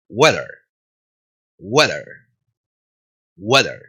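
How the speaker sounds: low "Weather" with a "we" glide as in "huevo". Shown as a demonstration. Teacher drilling climate in English, W like huevo. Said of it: "Ahora vamos a clima en inglés".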